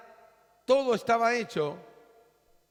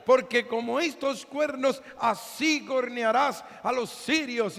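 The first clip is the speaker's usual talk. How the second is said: half-shouted mock prophecy; proclaiming shout; 4 semitones higher than usual. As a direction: boom it out like a showy prophet. Prophet with iron horns proclaiming.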